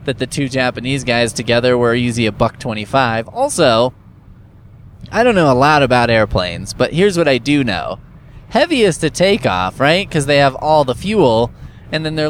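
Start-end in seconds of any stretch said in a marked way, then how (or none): none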